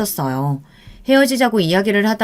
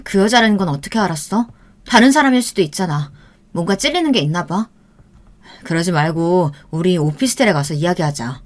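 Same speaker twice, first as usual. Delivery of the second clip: soft coaxing. Acted. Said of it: "부드럽게 제게 말을 하는 겁니다".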